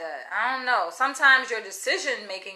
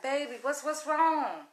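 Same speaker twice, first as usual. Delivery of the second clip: softer, higher imitation of a concerned sweet-talker; mock empathetic; 5 semitones higher, 5 dB quieter, slower than usual. Woman imitating the man being sensitive with her, mock tender. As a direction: coo it as his show of concern. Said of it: "try to have empathy".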